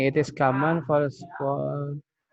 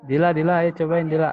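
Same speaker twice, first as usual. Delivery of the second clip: raised, louder call to a student; 4 semitones higher, 5 dB louder, faster than usual. Real, not acted. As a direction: call on a student by name, pitched up. Teacher calls on a student.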